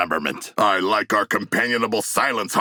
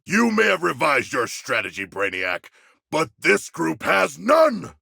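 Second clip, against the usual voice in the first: taunting shout; 7 semitones higher than usual. Acted. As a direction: fling the insult at Brainiac. Taunting Brainiac in battle.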